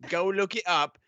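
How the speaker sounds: put-on Australian accent; mock Australian accent. Host poking fun at an Australian caster, mock Australian accent. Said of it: "I'm doing this accent anyways".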